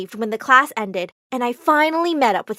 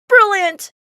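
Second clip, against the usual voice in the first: delighted cry; 7 semitones higher, 5 dB louder than usual. Acted. Director bursts out applauding.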